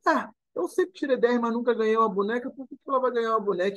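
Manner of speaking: put-on high, fast indignant child's protest; a little girl protesting the unfairness. Retold girl to her teacher, high indignant protest.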